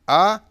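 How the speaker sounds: A called out high and loud; stressed model vowel; emphatic vowel. Shown as a demonstration. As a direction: belt out the vowel A. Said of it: "dizemos vai, I, A, A".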